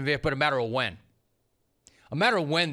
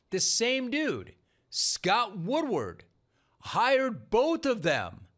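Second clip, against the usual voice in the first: incredulous; 6 semitones higher, slower than usual. Real, not acted. Incredulous emphasis on Woodward.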